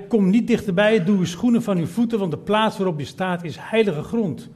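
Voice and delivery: a touch of divine authority; commanding God. Acted. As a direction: proclaim it as God from the bush. God speaks to Moses.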